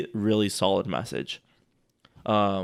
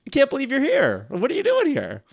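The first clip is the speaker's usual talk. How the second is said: much higher and louder, thrilled; excited reunion; 14 semitones higher, 5 dB louder than usual. Acted. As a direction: greet a long lost friend. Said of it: "As a long lost friend".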